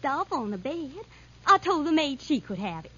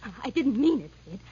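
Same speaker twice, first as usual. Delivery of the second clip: stammered apology at usual volume; nervous retraction; 3 semitones lower than usual. Acted. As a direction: nervously take it back, still controlled. Repeats retraction to attacker.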